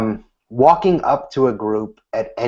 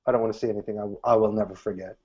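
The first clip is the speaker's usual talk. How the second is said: grumbling refusal; 4 semitones lower, 8 dB quieter, faster than usual. Retold or imitated. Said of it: "I've never had anyone say".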